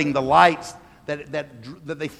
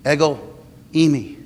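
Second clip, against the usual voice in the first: cried out; 4 semitones lower than usual. Shown as a demonstration. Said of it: "Jesus cries this out".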